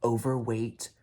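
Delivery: slow, loud furious rant; slow outraged yelling about the crowd. Real, not acted. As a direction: hammer each word out in outrage. Ranting about drunk crowd member.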